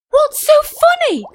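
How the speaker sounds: high, indignant little fish; rude shout. A narrator's reading. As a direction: snap it at the old fish. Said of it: "he shouted rudely".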